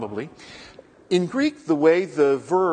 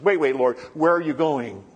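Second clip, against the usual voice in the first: upset Peter; 2 semitones higher, 4 dB louder than usual. Retold or imitated. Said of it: "Peter was a little upset and he says".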